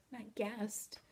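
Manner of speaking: Molly quietly admitting the truth; shamed voice. Acted. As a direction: drop the voice in shame. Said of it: "I said in a low, shamed voice".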